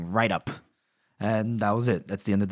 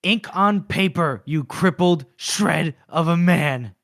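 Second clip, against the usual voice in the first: slow contemptuous insult; 3 semitones higher, 4 dB louder, slower than usual. Retold or imitated. Quoting the Arch Lector's insult to Glokta, slow contempt. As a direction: drag each word out, chuckling. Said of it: "you like this part where he goes".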